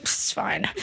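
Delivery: tiny, hushed, offhand reply; mock nonchalance. Little girl brushes off sympathy, quiet and nonchalant. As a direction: imitate a kid quietly brushing it off. Child shrugs off dog's death.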